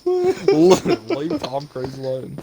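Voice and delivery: high, slow, drawn-out plea; high slow mock defense of Tom Cruise; mock pleading. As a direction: whine it out high and slow like a wounded fan.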